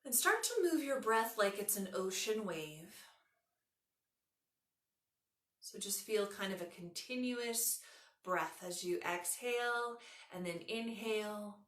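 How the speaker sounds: unhurried yoga nidra guiding voice, long pauses; measured relaxation instructions with room to breathe; guided meditation. Acted.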